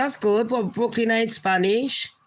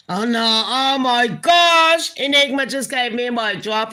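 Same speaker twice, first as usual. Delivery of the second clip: shocked; 3 semitones higher, 4 dB louder than usual. Real, not acted. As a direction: gasp it out in real shock. Shocked by a viewer's comment.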